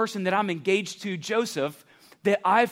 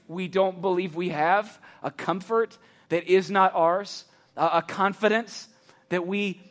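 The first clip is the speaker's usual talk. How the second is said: closing prayer; 3 semitones lower than usual. Acted. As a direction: pray over them gently. Closing prayer over campus.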